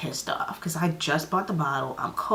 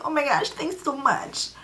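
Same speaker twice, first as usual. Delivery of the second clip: mock gushing thanks; 9 semitones higher than usual. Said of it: "And I'm like".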